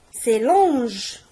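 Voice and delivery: "longe" with a soft zh at the end, stressed. Shown as a demonstration. Teacher shows the soft g pupils must avoid.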